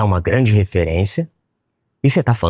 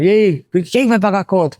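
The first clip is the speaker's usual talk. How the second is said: restaurant guy asking; 12 semitones higher than usual. Retold or imitated. Restaurant owner asks who pays the bill, high and teasing. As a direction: call out the bill question playfully. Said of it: "o cara".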